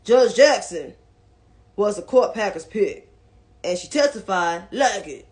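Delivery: lightly voiced senator with put-on accent; Mitch McConnell. Commentator quoting the senator on the judge, lightly mimicked voice. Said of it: "That was my best Mitch McConnell's voice".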